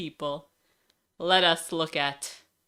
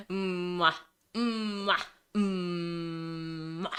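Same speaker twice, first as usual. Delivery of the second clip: kiss sounds; 5 dB quieter, much slower than usual. Pretend. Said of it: "Did I kiss me?".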